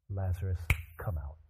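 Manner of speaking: low, hushed call; soft summons. Acted. Jesus calling Lazarus so they know love, hushed summons. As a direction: call him out very softly.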